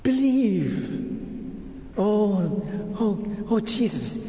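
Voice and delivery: earnest plea with drawn-out opening; fervent prayer. Real, not acted. Preacher begging Jesus for belief, fervent. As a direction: implore Jesus, building then easing. Praying aloud for faith.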